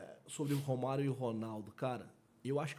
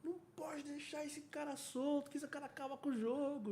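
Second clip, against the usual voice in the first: high-pitched, thin mimicked fan cry; imitated football fan; 13 semitones higher, 4 dB quieter than usual. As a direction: put on a strained, high voice for a worried fan. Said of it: "o cara falou".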